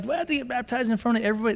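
nervous youngster. Retold or imitated. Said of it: "some of these young ones".

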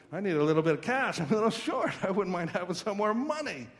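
lightly voiced schemer, quick at the start, angling for cash; wheedling Judas. Judas at the supper table asking for money, lightly wheedling. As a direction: play a casual, needling ask for money.

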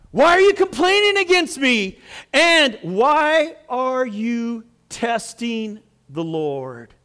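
high, loud indignant challenge, slowing down; mad. Acted. Fed-up Moses replying to the complainers, indignant. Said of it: "He was really, really mad".

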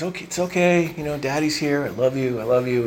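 softly reassuring, as a dad to his newborn; soothing father. Retold or imitated. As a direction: retell a father's gentle, quiet comforting. Retold father calming crying baby.

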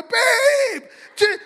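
high, loud urgent call; calling to wife. Retold or imitated. Pastor running to tell his wife, loud high urgent call. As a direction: shout for your wife to come. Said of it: "I'm running her going".

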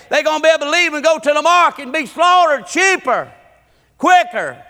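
high, pressing preacher's delivery; animated sermon storytelling. Real, not acted. Preacher retelling the feed seller's pitch, animated and high.

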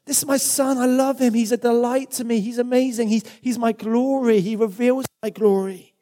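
delighted father's outburst; proud joyful father. Acted. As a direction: gush like a father over his son. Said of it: "a proud father bursting with joy".

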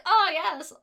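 high, slow, dreamy silliness; mock airhead women. Mocking women written as idiots, high slow airhead voice. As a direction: play a vacant airhead, drawing it out high. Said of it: "Just idiots who have never read a newspaper".

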